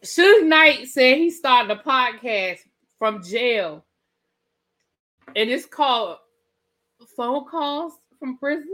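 forced straight face, word by word; straight-faced attempt. Real, not acted. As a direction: announce it carefully, holding the laugh back. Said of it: "Let me say this with a straight face".

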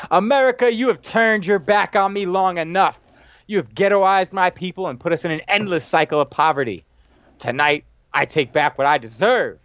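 declaimed wrestling heel promo, starting high; Welfare Queen. Retold or imitated. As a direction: address the nation as a defiant heel. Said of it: "this little heel promo by Welfare Queen".

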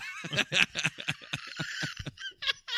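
squealing high giggle; high laugh. Real, not acted. Laughs after the quote.

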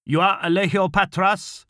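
high, loud demand; commanding interrogation. A narrator's reading. Officer confronting the old farmer, demanding his name. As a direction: fire the question as an official demand.

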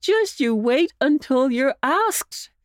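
jolly, slowed and teasing; merry uncle voice. A narrator's reading. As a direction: cheer the pup along. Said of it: "in his most jolly voice".

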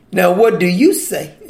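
dry, mocking question to the teacher; lightly mocking Pharisee challenge; sarcastic question. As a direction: ask it with a sneer, like a trap. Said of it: "You hear the sarcasm in their voice?".

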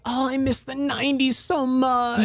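high-pitched gushing imitation; mock nostalgia. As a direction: parody people pining for a decade. Mimicking nostalgic people.

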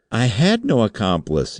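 high, desperate denial; frightened cry. A narrator's reading. Suspect on his knees before the chairman, crying out. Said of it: "he cried".

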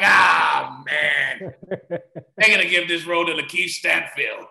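loud, drawn-out groan into laughter; mock dismay. Actor recalls fearing he lost the role, mock dismay. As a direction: wail it in hammed-up despair. Retells his dismay at being found out.

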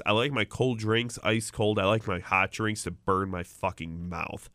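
slow, low deadpan quote; lightly voiced slow deadpan delivery; Anthony Bellino impression. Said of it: "Anthony Bellino said it best".

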